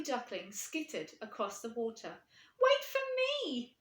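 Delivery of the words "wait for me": high, slow, loud call after them; pleading call. Acted. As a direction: beg them to wait. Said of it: "he honked".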